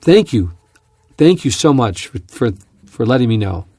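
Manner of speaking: high and loud thanks, settling down at the end; hammed-up delight fading to polite thanks; imitating gushing caller. Pilot mimics instructor thanking his son, loud and gushing. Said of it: "you could hear him saying".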